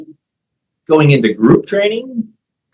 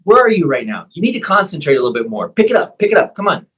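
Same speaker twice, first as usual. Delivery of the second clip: pushing coach; 3 semitones higher, faster than usual. Retold or imitated. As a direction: get on him to wake him up. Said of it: "You're like".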